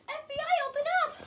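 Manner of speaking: loud, high FBI raid shout; grave federal agent. Acted. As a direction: bark it like agents at the door. Skit, agents banging at door.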